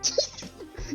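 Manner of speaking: short, high, voiceless laugh; amused snicker. Real, not acted. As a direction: let out a brief snicker. Amused at being told to consent.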